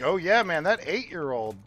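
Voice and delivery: high, loud mock creep voice. Mocking a creep about a child, high and loud. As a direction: sneer it out like a leering creep.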